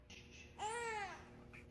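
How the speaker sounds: very slow, high drawn-out shh; long soothing shush. Acted. Mom soothes the fussing baby with long slow shushes. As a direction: stretch each hush out slowly.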